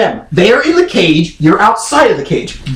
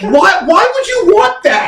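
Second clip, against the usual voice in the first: 1 mock exasperated shout; 9 semitones higher than usual. Mock outrage at cat vomit.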